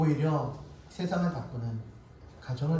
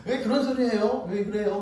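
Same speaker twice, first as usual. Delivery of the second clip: mildly mock-angry, higher-pitched retort; angry wife; 4 semitones higher than usual. Wife objecting to husband's remarks, mild mock anger. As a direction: lightly imitate a wife's annoyed protest. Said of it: "화를 내면서".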